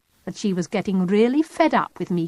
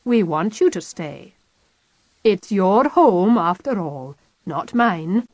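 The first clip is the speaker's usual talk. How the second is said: even, expressionless; 3 dB louder, slower than usual. Acted. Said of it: "said Goggle Eyes evenly".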